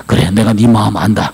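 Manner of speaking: low, understanding reassurance; comforting. Acted. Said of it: "마음이 누그러들 것 같아요".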